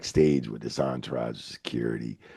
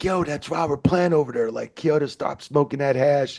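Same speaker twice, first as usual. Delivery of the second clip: high-pitched, worked-up imitation; excited retold exchange; 11 semitones higher than usual. Wrestler arguing with disbelieving friends, excited. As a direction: pitch it way up, incredulous.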